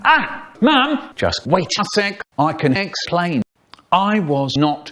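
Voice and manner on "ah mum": high pleading whine; whiny boy. Acted. Boy caught out, pleading with his mum in a high whine.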